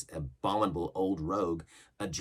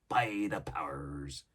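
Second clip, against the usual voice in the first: hushed unvoiced aside; whispered oath; 3 semitones lower, much slower than usual. Silver ending his boast to the lad, whispered.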